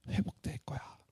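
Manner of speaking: hushed whisper of restoration; whispered promise. Acted. God promising Judah's restoration, in a whisper. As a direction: breathe the promise softly. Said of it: "하나님이 말씀하세요".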